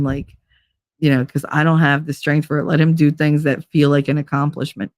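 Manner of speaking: sit-down advice. Retold or imitated. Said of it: "sit me down and be like".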